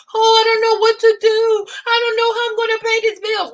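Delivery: high, whiny mock-sob about bills; hammed-up whimpering husband; mocking crying man. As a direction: whine like a helpless grown man. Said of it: "He's like".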